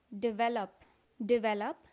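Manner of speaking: "डेवलप" said di-VEL-up; correct pronunciation. Shown as a demonstration. Teacher introduces the first word to learners, "डेवलप" as di-VEL-up. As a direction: stress the second syllable of "डेवलप". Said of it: "लेकिन ये असल में होता है डेवलप".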